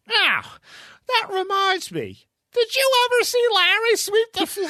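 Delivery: very high, squealing through laughter; helpless laughter lifting the voice sky-high; cracking up. Retold or imitated. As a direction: barely get the retold line out for laughing. Cracking up while retelling.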